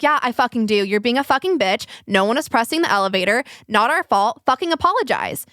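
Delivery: retold heated comeback, rising on the last demand; angry comeback. Teller demands an apology from the woman, retold angrily. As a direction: act out standing your ground in a row. Acted quarrel, hurling insult and demand.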